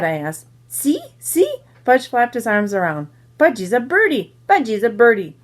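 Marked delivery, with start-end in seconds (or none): 0.7-1.6 put-on very high little-kid squeal; excited toddler. A narrator's reading. Toddler calls out from jungle gym. 3.4-5.4 lightly voiced toddler, higher at first; playful toddler. A narrator's reading. Toddler pretends to be a bird.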